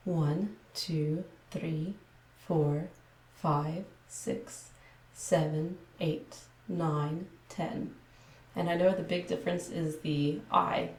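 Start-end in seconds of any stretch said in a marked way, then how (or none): 0.1-7.9 careful, measured ASMR counting. Shown as a demonstration. ASMR creator showing viewers her video voice, careful ASMR delivery. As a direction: count out each number separately, with careful vowels. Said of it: "this would be my A S M R voice".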